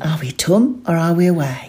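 brisk East Suffolk question, home short as ʊ̃m; quick East Suffolk. Shown as a demonstration. Football fan asking about the match, quick. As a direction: rattle it off East Suffolk style. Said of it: "A bit faster".

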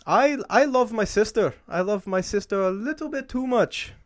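slow, drawn-out Southern-style accent attempt; put-on accent, Alabama-like. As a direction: stretch it out in a clumsy Alabama accent.

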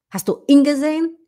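"ihn" shortened to "in"; wrong short i. Shown as a demonstration. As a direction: give "ihn" a short lax vowel, run into gesehen. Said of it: "Fica uma coisa tão feia".

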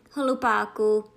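loud, impatient snap at the servant. A narrator's reading. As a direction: bark it out in contempt. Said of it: "netrpělivě pohodivši hlavou".

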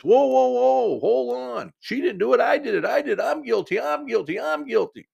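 very high-pitched mock protest; hammed-up high cry of confession; retold frantic yelling. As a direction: jump in as the young man, voice shooting way up. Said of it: "They're both yelling at each other".

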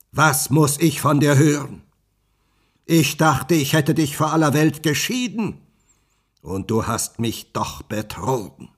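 hurt fury of a betrayed guardian; angry witch. Acted. The witch berates Rapunzel for deceiving her, loud and angry. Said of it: "In ihrem Zorn".

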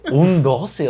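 disbelieving "¿Un doce?", asked back in shock; "¿Un doce?" as a stunned question; incredulous echo. Retold or imitated. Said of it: "Y yo".

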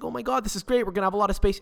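high, gushing mock excitement; imitating girlfriend's delight. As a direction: squeal it like she's thrilled about the empty seat. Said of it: "So she's like".

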